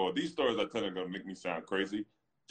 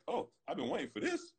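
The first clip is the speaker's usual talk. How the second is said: higher, gleeful, a bit softer; eager to fight; 10 semitones higher, 3 dB quieter than usual. Retold or imitated. Player retelling his answer to a rival, softer and gleeful. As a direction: quietly relish the dare. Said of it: "he opens his hands to me".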